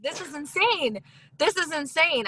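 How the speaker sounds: high, amazed repeat of the line; half-hearted mock disbelief; dramatic disbelief. Retelling her call to the coach, mock amazement. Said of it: "I was very dramatic".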